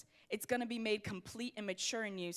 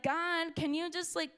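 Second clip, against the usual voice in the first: complaining; 3 semitones higher than usual. Retold or imitated. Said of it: "The Israelites are literally complaining".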